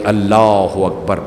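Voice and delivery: slow, drawn-out call of the takbir; son calling out. Acted. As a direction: stretch it like a distant cry. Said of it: "بیٹے کی آواز آئی".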